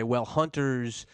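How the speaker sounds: slow, drawn-out mock excuse; mock NRA spokesman. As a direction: stretch out "Well, hunters" mockingly. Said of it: "the N R A can't come in here and say".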